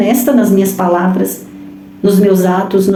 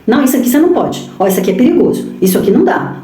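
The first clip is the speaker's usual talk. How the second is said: fearful parent warning; faster than usual. Acted. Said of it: "eu transmito isso pra eles".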